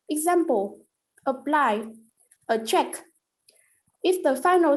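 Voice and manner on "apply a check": "apply, a check" as stress examples, second syllable stressed. Shown as a demonstration. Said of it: "that second syllable is stressed".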